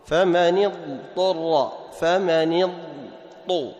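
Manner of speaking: slow, Dad held apart from the Ta in اضطر; deliberate teacher's demo of اضطر with unmerged Dad; clear Dad before Ta. Shown as a demonstration. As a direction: sound the ض fully in اضطر, then a separate ط, unmerged. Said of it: "تنطق بالضاد أولًا ثم تأتي بالطاء ولا تدغم".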